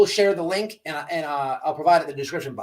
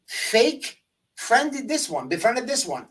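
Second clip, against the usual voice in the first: sarcastic drawl; 5 semitones higher, slower than usual. Real, not acted. Mocking emphasis.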